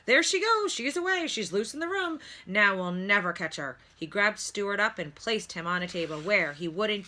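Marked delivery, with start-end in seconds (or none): 0.1-3.8 high, loud frantic cries; rising panic fading to dismay; panicked doctor. A narrator's reading. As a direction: chase the runaway car in alarm. Doctor panics over car.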